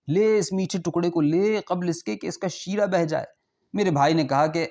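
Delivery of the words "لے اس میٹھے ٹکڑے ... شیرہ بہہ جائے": raised, insistent host voice repeating the offer; host insisting once more the guest take the sweet; coaxing host. Acted. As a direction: urge it again, pitched up, pressing.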